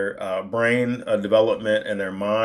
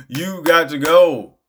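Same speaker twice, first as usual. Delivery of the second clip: slow, higher, drawn-out send-off; mock dismissal; 4 semitones higher, 4 dB louder, slower than usual. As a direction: playfully order them out, stretching the words. Acted dismissal of a distracting person.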